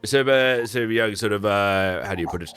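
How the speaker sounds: chatty, eager merchant explaining; merchant npc. Acted.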